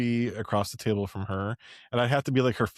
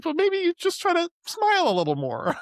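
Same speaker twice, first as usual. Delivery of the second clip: high, sweet boss advice; gentle boss voice; 3 dB louder than usual. Retold or imitated. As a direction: coax like a kind manager. Leader's advice, voiced by speaker.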